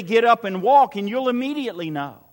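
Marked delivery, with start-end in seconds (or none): 0.0-1.0 ringing command to get up and walk; loud command. Shown as a demonstration. Preacher voicing Jesus healing the paralytic, loud command. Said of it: "I can say".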